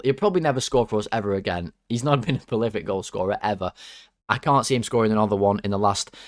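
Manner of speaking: usual speaking voice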